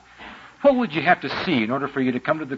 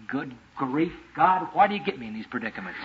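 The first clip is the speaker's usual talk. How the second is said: muttered inner groan; 6 dB quieter than usual. Retold or imitated.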